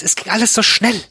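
high-pitched, rattled reply; flustered. A narrator's reading. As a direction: blurt it out, acted alarm. Flustered reply in acted night-time scare.

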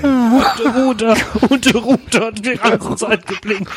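high, slow hammed-up storyteller; mock dramatic narration. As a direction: overact the line like a soap.

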